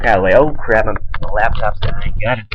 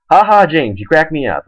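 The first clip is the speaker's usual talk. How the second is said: mocking her laugh; 5 semitones higher, 4 dB louder than usual. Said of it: "Oh, I'm trying to be so funny".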